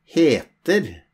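"heter" with its opening H clearly sounded; pronounced H. Shown as a demonstration. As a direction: say "heter" with an audible puff of H at the start. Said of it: "Here we pronounce the H sound".

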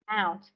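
"Mouth" with a clear final th; corrected mouth. Shown as a demonstration. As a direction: say "Mouth" ending on the th sound. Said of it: "miệng là nó T H chứ không phải xoay A". (đọc "Mouth" có âm cuối th)

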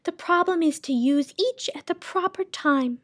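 high, loud lady's voice with a tearful wobble; high and loud, a sobbing fairy-tale keeper; sobbing sound keeper. Acted. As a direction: wail over the ruined fortress. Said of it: "she sobbed".

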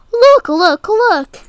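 high, loud eager calling; storybook cat urging the prince to look; excited. Acted. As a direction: point it out, bursting with excitement. Acting excited storybook line.

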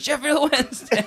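high-pitched, dodgy mock Thai accent; badly faked Thai accent. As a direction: imitate keen Thai locals in a bad accent. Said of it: "that's not a Thai accent".

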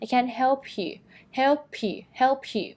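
"help you" joined as "hel-pyu", short vowel; linked sounds. Shown as a demonstration. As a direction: link the P of "help" straight into "you". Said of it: "เชื่อมกับ you ได้ยังไง ให้มันเร็วขึ้น". (เชื่อม help you เป็น เฮ็ล-พยุ)

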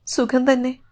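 understated catch of a sob; choked with emotion. Acted. Woman says she is well to man in space, mildly choked. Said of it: "ഗദ്ഗദം കൂടുതൽ വാക്കുകളെ തടഞ്ഞു".

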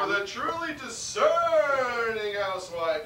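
slow, lightly put-on commercial voice; ad announcer voice. Chef reads a mock mayonnaise commercial in a put-on voice. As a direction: sell it like a TV ad announcer. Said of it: "I'm out of character".

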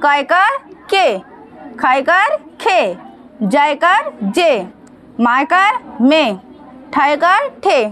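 teacher's slow syllable drill, each के, खे, जे ending in a light e; light vowel drill. Shown as a demonstration. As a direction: slowly spell out का एकार के, landing on a light e. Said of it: "आवाज़ हल्की है और खींचा भी हल्का जा रहा है".

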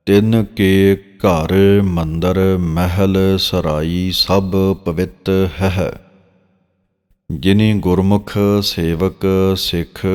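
drawn-out, measured reading of sacred verse; slow scripture recitation. Shown as a demonstration. Teacher reciting Gurbani verse for students, slow and measured. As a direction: recite each phrase slowly and reverently.

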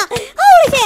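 high, loud yell of victory; triumphant whoop. Acted. Gamer cheers while fighting his clone, whooping. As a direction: whoop like you just won the hit.

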